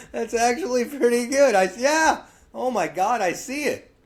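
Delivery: high, excited astonishment; amazed. Real, not acted. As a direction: react blown away, pitched well up. Amazed reaction to the impression.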